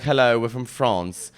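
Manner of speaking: lightly done French-accented greeting; French accent at everyday volume; understated French accent. Shown as a demonstration. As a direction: say it with a mild French accent, unforced. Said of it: "it's not like they're like".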